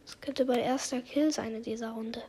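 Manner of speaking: hushed tense whisper; real sneaking whisper. Real, not acted. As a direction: whisper so the enemy won't hear. Sneaking up on enemy.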